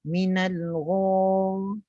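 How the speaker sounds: slow GHA with the lips rounded; inexact rounded sound. Shown as a demonstration. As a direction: let pouting lips colour a long gha. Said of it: "itu adalah kurang tepat". (gha kurang tepat, bibir dibulatkan)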